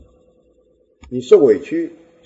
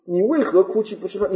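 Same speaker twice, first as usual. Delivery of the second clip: clumsy husband; 6 semitones higher than usual. Retold or imitated. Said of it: "大笨牛讲话".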